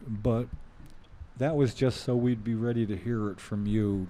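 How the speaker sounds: sounds muffled; words dulled, like a hand over the mouth. Real, not acted. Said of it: "You're still really bluff-, uh, mu-, muffled".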